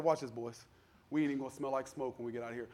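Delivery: put-on low, cool aside to the boys; a hint of unruffled confidence, pitched low; lightly voiced Jesus. Jesus to the men in the furnace, lightly voiced low confidence. Voicing Jesus rolling up his sleeves.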